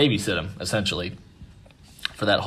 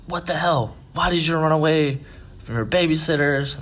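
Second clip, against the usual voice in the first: high-pitched retold scolding; pissed-off mom; 8 semitones higher than usual. Mom to runaway son, imitated pissed-off scolding. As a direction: imitate an angry mother telling off her son. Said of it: "his mom is pissed".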